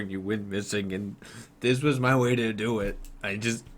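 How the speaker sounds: halting, mildly tearful confession; acted crying. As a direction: stammer into a father's pleading apology, lightly played. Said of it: "he starts crying even more".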